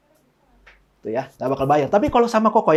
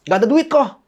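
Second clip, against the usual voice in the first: Novi's excuse; 4 semitones higher than usual. Retold or imitated. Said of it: "Novi bilangnya".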